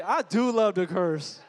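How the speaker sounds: slow, drawn-out mock confession; back-row churchgoers admitting they love to curse; honest back row. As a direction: cheekily voice the back-row crowd. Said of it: "They're all like".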